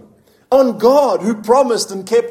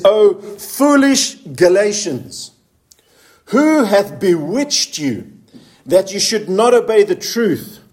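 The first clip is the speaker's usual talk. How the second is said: slow, emphatic Bible reading; scripture reading; slower than usual. Acted. Preacher reading Paul's rebuke to the congregation, slow and emphatic. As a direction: read the verse out deliberately, raised from the talk.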